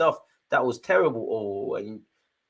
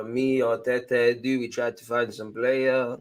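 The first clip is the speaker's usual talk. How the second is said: slow, drawn-out mock Spanish-accented English; mock Arteta accent; slower than usual. Fan mocking Arteta's put-on accent, slow Spanish-accented English. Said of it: "put accent on for no reason".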